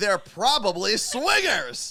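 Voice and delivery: shrill, full-volume shout. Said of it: "at the highest possible decibel".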